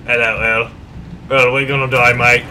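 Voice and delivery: put-on hammy British wartime-speech accent; terrible British accent. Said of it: "sorry for my terrible accent".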